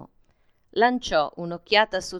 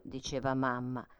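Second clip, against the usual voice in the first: plain reading voice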